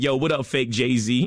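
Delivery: playful mock-rapper call-out; impression of a famous rapper. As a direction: hail someone teasingly in a rapper's voice. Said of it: "he's like".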